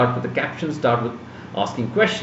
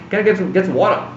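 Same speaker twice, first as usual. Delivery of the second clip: put-on American accent with "water" as /wɔʈə/; lightly mock American take on "water"; 4 semitones higher, faster than usual. Shown as a demonstration. Showing students a fake-sounding American accent. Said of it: "That's U S".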